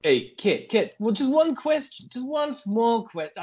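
lightly put-on American chat-show voice; a hint of a brash American host; slight American talk-show accent pleading for one question. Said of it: "Put the American voice on".

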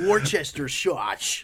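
slow, drawn-out mock British accent. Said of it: "that was a good accent".

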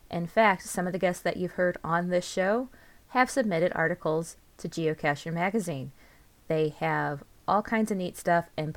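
friendly promotional read. Real, not acted. Host recommending a geocaching magazine, ad read. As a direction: pitch the magazine to listeners.

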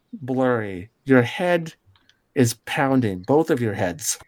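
measured scene-setting with suspenseful pauses; storyteller revealing a predicament in short phrases; game master narration. Acted. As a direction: unfold the scene bit by bit.

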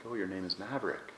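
lightly imitated Swiss German accent; a hint of a Swiss German accent lady. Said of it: "in her Swiss accent".

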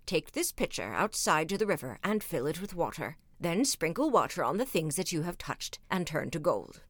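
lightly voiced instructing wizard; a hint of a calm wise wizard.

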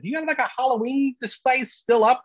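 high, searching question; retold puzzlement. Comic asking venue owners to explain the noise, puzzled. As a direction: ask it high, hunting for an explanation.

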